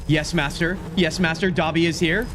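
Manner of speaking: Dobby impression. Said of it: "intimidating version of Dobby".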